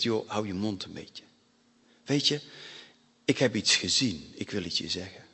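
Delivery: low, soft confiding voice; hushed rebuke. Acted. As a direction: quietly tell a mate to listen. Criminal quietly rebukes his mate.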